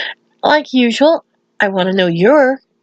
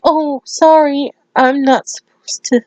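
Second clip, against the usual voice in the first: higher, drawn-out sheepish sorry; imitating an embarrassed apology; acted apology; 5 semitones higher than usual. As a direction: caught out, apologise in a raised voice. Pinky caught touching the instrument.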